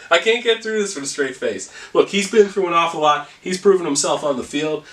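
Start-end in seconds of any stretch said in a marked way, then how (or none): 1.9-4.8 inspirational coach. Acted. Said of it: "You sound like the coach in an inspirational football movie".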